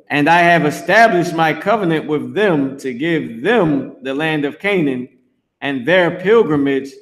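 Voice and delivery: measured, formal Bible reading; scripture reading. Acted. Preacher reading Exodus aloud to his listeners, solemn. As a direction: read the verse out with weight.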